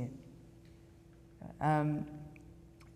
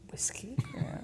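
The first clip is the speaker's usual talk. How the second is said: surprised squeak; 5 dB quieter than usual. Retold or imitated. Surprise at gulping whiskey, not tea.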